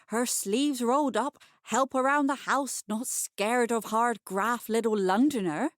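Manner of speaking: all bosom and bluster, talking herself up; bustling landlady. Acted. Bustling Mrs Ladner justifying herself to the reader, loud and breathless.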